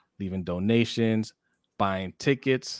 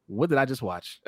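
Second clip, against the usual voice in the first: laughing, stunned; laughing disbelief. Retold or imitated. Fan retelling the miracle catch, laughing in disbelief. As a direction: laugh through the amazement.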